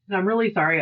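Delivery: a whispered, sheepish "I'm really sorry"; whispered apology. Retold or imitated. Coworker apologising, repeated whispered.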